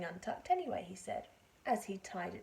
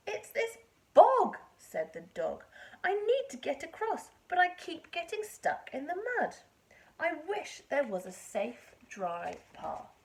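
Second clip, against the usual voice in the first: whining dog; 6 semitones higher, 8 dB louder than usual. Acted. Dog pleads about bog.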